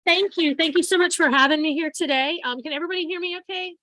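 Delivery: projecting to the room without a mic; loud, carrying classroom voice; teacher voice. Real, not acted. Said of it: "I'm just using my teacher voice".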